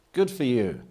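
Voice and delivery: high, loud, gushing approval; mock applause. Speaker voicing a cheering crowd to the audience, high gushing approval. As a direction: gush over it like an eager fan. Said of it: "The unsupportable phase is".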